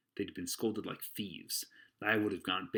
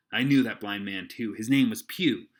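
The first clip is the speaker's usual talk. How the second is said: put-on eager boy; 10 dB louder than usual. Jim tells eagerly.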